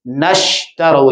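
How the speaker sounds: نشترو slowly, the waw joined onward; joined recitation. Shown as a demonstration. Teacher recites نشترو slowly for students. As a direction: draw out نشترو, linked to the next word. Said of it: "یہ آگے ملانے کے لیے".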